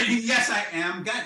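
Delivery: high, slow, lofty declaration; grand God announcement. Pretend. God introducing himself to the board, grandly. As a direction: announce yourself like a pompous deity.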